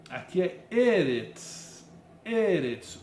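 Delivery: "eretz" said slowly, stress on the first syllable; Hebrew pronunciation. Shown as a demonstration. Teacher modelling "eretz" stressed on the first syllable. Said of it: "indica que é uma paroxítona".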